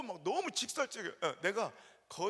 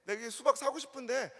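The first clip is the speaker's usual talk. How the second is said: haggling pastor; 3 semitones higher, 4 dB louder than usual. Retold or imitated. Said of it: "흥정을 가는 거예요".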